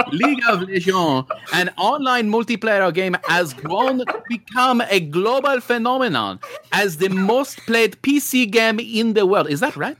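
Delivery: put-on a French accent drifting toward Russian and Jamaican; wobbly mock French accent slipping into other accents; bad French accent. Bad French accent, still reading the press release aloud. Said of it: "Russian and Jamaican".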